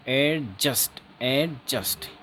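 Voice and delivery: 'एडजस्ट' voiced with j in place of d; J, not D. Shown as a demonstration. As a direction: stress the j sound in 'एडजस्ट', d silent. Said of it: "आप जे बोल रहे हो".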